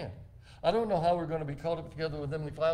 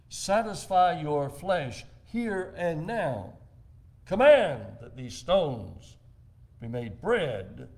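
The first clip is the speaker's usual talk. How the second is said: Satan tempting; 5 dB louder, much slower than usual. Acted. Preacher voicing Satan tempting Jesus in the desert, slow and coaxing. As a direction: drag out each word like a seductive devil.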